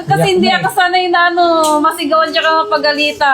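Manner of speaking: real tearful voice. Real, not acted. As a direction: explain through tears and laughter. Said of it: "Ba't ka umiiyak".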